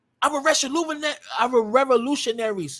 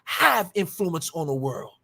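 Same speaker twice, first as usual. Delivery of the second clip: "Have" drawn out, slow and low; slow, lowered line led by a long "Have"; stress on "have"; 4 semitones lower than usual. Real, not acted. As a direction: lean slowly on "Have" at the start. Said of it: "And I say have".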